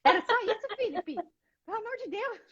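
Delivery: high-pitched retold disbelief, pelo amor de Deus; disbelieving exclamation. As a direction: act shocked it was that simple. Disbelief at husband's simple answer.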